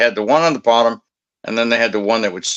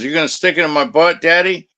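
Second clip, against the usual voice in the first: imitated streetwalker; 5 semitones higher than usual. Voices the streetwalker's proposition.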